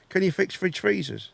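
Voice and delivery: whispered aside, unvoiced. Whispering the question to his friends about the fridge. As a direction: breathe the question without voice. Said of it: "whispered repeat of question".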